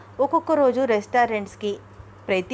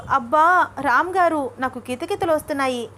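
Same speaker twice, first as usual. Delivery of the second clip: ticklish protest; 5 semitones higher, 3 dB louder than usual. Acted. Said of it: "గెంతుతూ".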